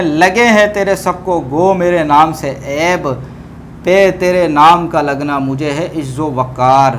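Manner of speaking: slow, measured recital of verse; poem recitation. Acted. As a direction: recite the couplet slowly, savouring each line. Recites a Persian-Urdu couplet.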